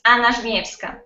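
Anna Żmiewska said the native Polish way, AH-na; Żmiewska with a Polish zh sound, ZHMYEF-ska; Polish pronunciation. Shown as a demonstration. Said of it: "with Polish accent".

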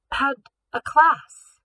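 high, slow, fragile gasp of words; a girl faking weakness for the guards, slow and frail; faint, weak. Acted. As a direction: play it frail, breath running out. Gabrielle plays weak gassed victim.

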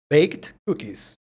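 very slow, Baked stressed; slow model. Shown as a demonstration. Teacher slowly models the full phrase for students. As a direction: stretch Baked cookies and hit Baked. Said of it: "Quieren ser más específico".

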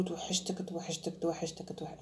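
soft, sighing توحشتك repeated; mock clingy i miss you. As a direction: breathe توحشتك softly like a lovesick girl. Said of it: "تقولي له".

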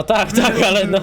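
deliberately exaggerated. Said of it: "tak mówię specjalnie".

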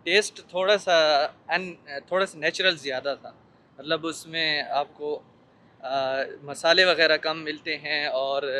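muffled behind surgical mask; speaking masked outdoors; through a face mask. Real, not acted. Seen 2: surgical mask covers mouth and nose throughout labelled words.

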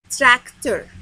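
TRACTOR in two loud, clear syllables; "Tractor" carefully divided as trac, tor; syllable demonstration. Shown as a demonstration. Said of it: "بقولها على مقطع واحد أو اتنين".

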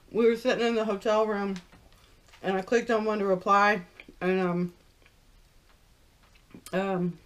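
talking while chewing food; muffled chewing between words; mouth full, chewing. Real, not acted. Seen 1: Fry bitten at -1; jaw chewing to 6.8, chicken only held.

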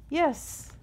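high-pitched eager "yes"; a short, high cheer, not shouted. A narrator's reading. Little bugs answering the offer of a story, cheering. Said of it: "they cheered".

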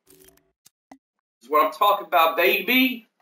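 high, drawn-out Motown voice. Pretend. Streamer approving a good roster, in a Motown voice. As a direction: stretch it out slow and high like a Motown act. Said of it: "In my Motown voice".

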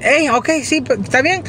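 voz mucho más aguda, como de mujer; voz de muchacha imitada. Retold or imitated. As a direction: imita a la muchacha aceptando por teléfono. Cita la respuesta de la muchacha. (voz aguda de muchacha)

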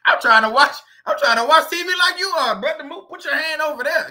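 a hammed-up roach cracking up; laughing roach voice. Roach telling the resident to move his hand, laughing.

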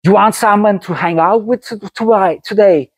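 high, twangy imitation of a friend; Side's ringing twang. Friend offering someone to hang out with, ringing twangy impersonation. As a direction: pitch it up high, with a piercing ring. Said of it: "a ring to his voice".

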